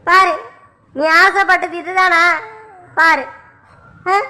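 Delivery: bitter, restrained scolding; angry reproach. Acted. Husband blames his wife for splitting the family, angry reproach. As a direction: accuse her, pressing point by point. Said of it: "என்கிட்ட கோவமா பேசாதீங்க".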